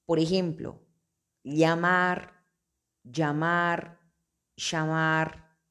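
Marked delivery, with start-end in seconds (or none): 1.4-2.4 llamar with the ll said as a palatal lateral; regional pronunciation. Shown as a demonstration. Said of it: "Depende del acento de la región". 3.0-4.0 llamar with the ll said like the j in English "jam"; regional pronunciation. Shown as a demonstration. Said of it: "Depende del acento de la región". 4.5-5.6 llamar with the ll said as sh; regional pronunciation. Shown as a demonstration. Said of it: "Depende del acento de la región".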